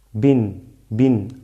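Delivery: "bin" low, short i and clear n; short "bin", closed firmly on the n; nunation ending. Shown as a demonstration. Teacher repeating double kasra for students, "bin" with short i. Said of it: "así se pronuncia".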